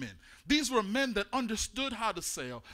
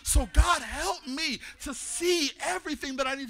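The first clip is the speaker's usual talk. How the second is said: a sudden raised shout opening the prayer; loud call to God; 4 semitones higher, 3 dB louder than usual. Real, not acted.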